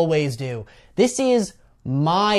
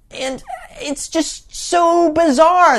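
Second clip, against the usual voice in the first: exaggerated disbelief; 11 semitones higher, 5 dB louder, slower than usual. Real, not acted. Exasperated rant about the film.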